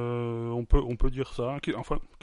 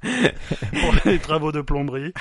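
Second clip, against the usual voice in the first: disguised voice; 3 semitones higher, 8 dB louder than usual. Pretend. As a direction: play the anonymous witness, hammed up a little. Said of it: "Ma, ma voix est modifiée".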